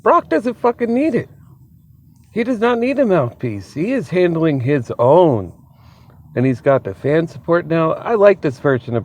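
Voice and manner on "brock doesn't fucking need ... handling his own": high, worked-up defence of Brock; fired-up retort. Retold or imitated. Vlogger voicing his own reaction to the show, high and fired up. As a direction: pitch it way up, insisting he needs nobody. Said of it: "I'm like".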